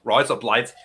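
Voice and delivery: Australian-accented "Rise up lights"; put-on Australian, words run together. Shown as a demonstration. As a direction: echo "Rise up lights" as an Aussie "razor blades". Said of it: "razor blades in the Australian accent".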